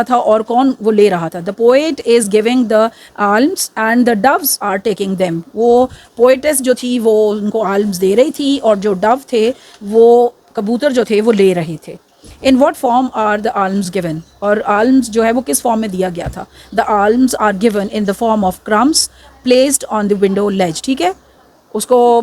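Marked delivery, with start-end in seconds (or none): 1.4-5.4 slow dictation. Shown as a demonstration. Dictates answer slowly to class. 16.7-20.8 slow dictation. Shown as a demonstration. Dictates answer slowly to class.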